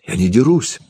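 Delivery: high-pitched, mildly pitiful denial; plaintive little protest; plaintive boy. A narrator's reading. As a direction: plead innocence like a wronged child. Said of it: "жалобно восклицал Антош".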